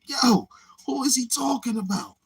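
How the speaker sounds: high, puzzled question; baffled question. Retold or imitated. Retelling his confusion over the song, a high puzzled question. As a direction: ask like you can't work it out.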